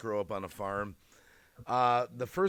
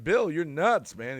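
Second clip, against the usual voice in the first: incredulous; 4 semitones higher, 5 dB louder, slower than usual. Retold or imitated. Retells warning his friend Bill.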